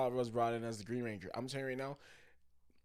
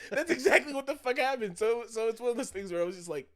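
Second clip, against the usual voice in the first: high, shouted comic outrage; really loud; 12 semitones higher, 8 dB louder than usual. Real, not acted. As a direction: yell the climax at full excitement. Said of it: "I'm getting really loud into it".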